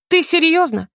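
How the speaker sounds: high, disbelieving question; incredulous question. Acted. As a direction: ask it as if you can't believe it. Disbelief at three days of sleep. (недоверчиво, изумлённо)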